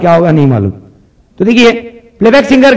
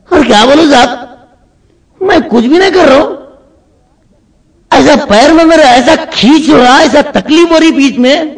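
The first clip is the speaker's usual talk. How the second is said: whining patient; 5 semitones higher than usual. Acted. Patient complaining.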